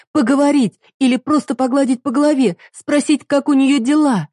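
wife listing what the father never did; rising anguished reproach. Acted. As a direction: pile up the grievances, voice climbing. Heroine lists grievances.

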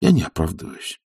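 a weary, sighing excuse. A narrator's reading. Oblomov sighs his excuse to his friend. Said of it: "со вздохом заметил Обломов".

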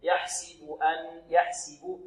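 slow, soft يحسب with a clean i after the s; clear kasra on seen. Shown as a demonstration. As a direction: draw out يحسب as yah-si-bu. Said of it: "نحافظ على كسرة السين في يحسب".

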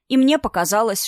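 usual speaking voice

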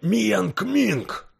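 high, loud cry of recognition; shocked exclamation. Acted. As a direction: gasp out the name in shock. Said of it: "воскликнул поражённый Лакон Тай". (поражённый возглас)

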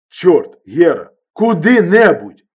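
loud, slow exasperated yell; angry shout. A narrator's reading. Injured friend yelling at Herman on the phone, angry shout. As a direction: snap at him to just go anywhere. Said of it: "закричав травмований".

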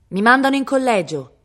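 high, loud, piqued; spiteful, emphatic declaration. A narrator's reading. Viola answering Cosimo before boarding the carriage, spiteful. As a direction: fling it out with haughty annoyance. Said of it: "con aria di dispetto ... scandì".

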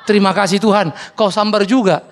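laughing mock prayer. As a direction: gush thanks while laughing. (doa syukur sambil tertawa)

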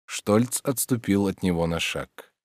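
ordinary delivery, nothing marked

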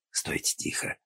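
soft unvoiced whisper; whispered warning in the dark. A narrator's reading. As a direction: hush her in a whisper. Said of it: "он прошептал".

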